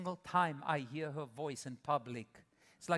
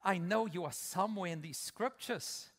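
prayer to God; 3 semitones higher, 3 dB louder than usual. Retold or imitated. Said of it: "I can go like".

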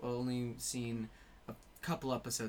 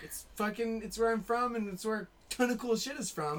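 proud Australian; 8 semitones higher, 5 dB louder than usual. Retold or imitated. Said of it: "'Cause you're like".

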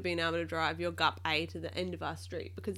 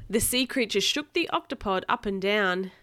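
louder, emphatic reread; reading to a child; 2 semitones higher, 7 dB louder than usual. A narrator's reading. Parent rereading the line on the child's request, emphatic narration. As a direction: punch out the storybook action.

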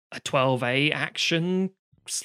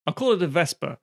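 bad acting; 4 semitones higher, 3 dB louder than usual. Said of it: "deliver it like you did on the thing".

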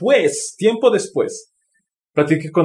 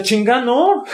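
retold outburst; 8 semitones higher, slower than usual. Recalling his reaction to compassion.

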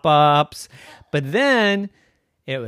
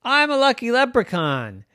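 leprechaun voice; 10 semitones higher, 4 dB louder than usual. Acted. Leprechaun introduces himself.

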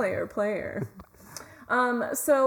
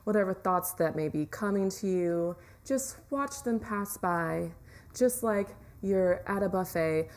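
calm relaxation guide voice; guided meditation. Acted. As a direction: ease them into relaxing.

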